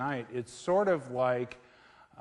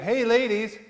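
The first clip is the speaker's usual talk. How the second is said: higher, louder frog calling out; talking frog; 9 semitones higher, 9 dB louder than usual. Acted. Frog hailing two women walking by, loud high call. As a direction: call out loudly as a joke frog. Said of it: "and the frog says".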